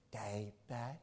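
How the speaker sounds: soft whisper of gratitude; whispered thanks. Retold or imitated. Husband recalling his wife whispering thanks to him. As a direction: whisper it close and tender. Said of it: "And she said".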